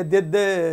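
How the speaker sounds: दे दे drawn out with an AY vowel; wrong AY sound. Shown as a demonstration. Teacher showing the wrong sound, दे दे with long AY. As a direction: stretch दे दे as day-day. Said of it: "ये दे दे वाला नहीं है".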